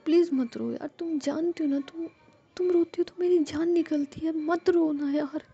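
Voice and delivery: high plea, stretched out at the end; tender pleading. A narrator's reading. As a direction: coax a crying loved one, pitch rising. Jia begs Ruhi not to cry. (प्यार से मनाते हुए, ऊँचे सुर में)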